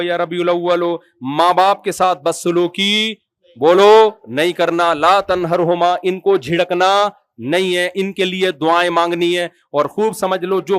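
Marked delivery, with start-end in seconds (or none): 4.9-5.9 Quranic recitation. Shown as a demonstration. Quoting the Quran.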